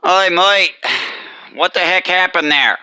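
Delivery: a hint of a gruff boss calling "mate"; lightly voiced boss demanding answers. Trucker role-plays a boss asking about the trailer, lightly voiced. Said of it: "two different, uh, little, uh, voice patterns".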